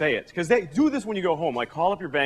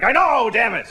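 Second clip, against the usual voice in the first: mock self-blame; 4 semitones higher, 4 dB louder than usual. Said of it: "And I'm like".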